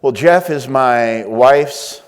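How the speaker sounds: slow, low and soft, shrugging Jeff off; a slow, low brush-off of Jeff; brain's dismissive voice. Retold or imitated. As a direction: drawl it out like it doesn't matter. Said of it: "Your brain says".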